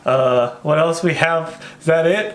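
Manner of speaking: hammed-up Minnesotan accent, lilting up; thick Minnesota nice accent. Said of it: "people literally talk like this".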